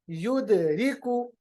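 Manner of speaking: युदरिकु slowly, dal bounced; slow recitation demo. Shown as a demonstration. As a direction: let the dal echo in युदरिकु. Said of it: "दाल की आवाज वापस आती है".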